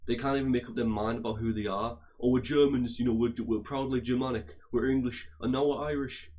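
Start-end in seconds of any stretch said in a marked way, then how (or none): 2.2-6.3 raised, mock-proud imitation of flip-flopping; mocking boast. Mimicking the English who can't make up their mind, mocking. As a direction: mimic them proudly changing their tune, pushed a little. Mocks the English switching identities.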